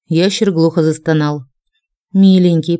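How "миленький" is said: pleading lament. Acted. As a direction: plead gently with the wounded dragon. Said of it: "причитала я".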